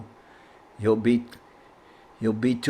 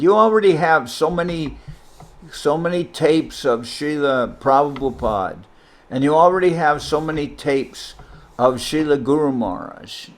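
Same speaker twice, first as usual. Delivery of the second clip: upset scolding; 3 semitones higher, 3 dB louder than usual. Retold or imitated. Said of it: "Govinda Maharaj was upset".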